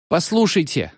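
lightly voiced tearful plea; sobbed plea. A narrator's reading. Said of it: "всхлипнул чайник". (всхлипывая)

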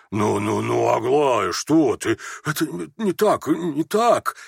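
испуганно, торопливо, сбивчиво; лепечет, пытаясь остановить дочь; испуганное бормотание. A narrator's reading. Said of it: "испуганно бормотал Иван Фёдорович". (испуганно бормочет)

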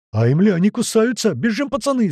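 high, loud cries of alarm; panicked yelling. A narrator's reading. Stung men urge each other to run, high yell. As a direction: shout to flee, pitched well up. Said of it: "заорали со всех сторон".

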